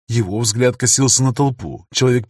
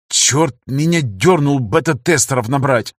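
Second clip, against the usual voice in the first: с горечью; slower than usual. Acted. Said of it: "с горечью произнёс".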